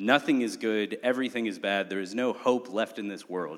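usual speaking voice

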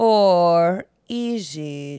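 very low villain voice, "or" drawn out. Joking about a mix-up over a timeline: Doctor Evil voice. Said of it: "Kelly just did a Doctor Evil impression".

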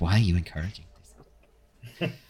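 soft muttering under the breath.

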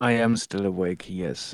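exhausted, barely awake, half-dead voice. At 4:40 in the morning, answering whether he's still awake, sounding half-dead. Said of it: "He sounds like he's on the edge of death".

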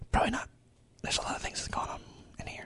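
hushed whisper. Talking to listeners, not sure why they are whispering, whispering. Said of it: "I don't know why I'm whispering".

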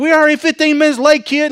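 very high yelling parent. Describing a parent yelling at the kids on the drive in, imitating a yelling parent. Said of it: "you're yelling, you're screaming".

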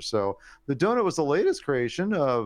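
rising, swooping sing-song voice climbing as it goes. Telling a news story, voice going up. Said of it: "I don't know why my voice went up".

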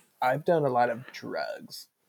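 slow, soft, raspy vocal fry drawled out. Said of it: "like a raspy, but not really raspy".

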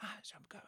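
barely audible, near-silent breathy whisper. Retelling a movie scene where the villain can't be heard: imitating Mark Strong barely audible. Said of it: "he might as well be whispering".

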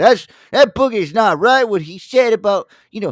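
high, slow, mocking, whiny complaining voice. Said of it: "and they're like".

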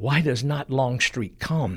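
under the breath.

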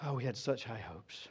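very quiet, low, deflated disappointment. Speaker voicing the disciples after the death, acting disappointed. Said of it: "feel the disappointment just dripping from the disciples".

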